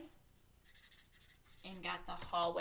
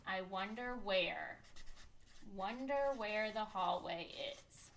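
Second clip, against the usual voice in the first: slow musing; acted curiosity, unhurried; thinking voice wondering; slower than usual. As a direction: ponder aloud, stretching the words. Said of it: "my thinking voice is already saying".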